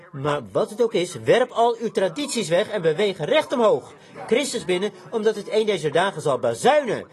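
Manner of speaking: loud, driving exhortation; urgent preaching. Real, not acted. Preacher urging the congregation to cast off traditions, urgent preaching. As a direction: press the warning home forcefully. Urges listeners to drop traditions.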